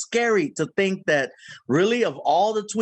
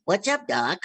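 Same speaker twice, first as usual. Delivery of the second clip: Bugs Bunny. Shown as a demonstration. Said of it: "You want Bugs Bunny?".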